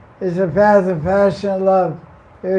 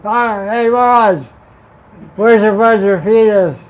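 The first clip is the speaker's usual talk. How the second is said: hungry parrots calling; 2 semitones higher, 5 dB louder than usual. Retold or imitated. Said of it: "they see me and they go".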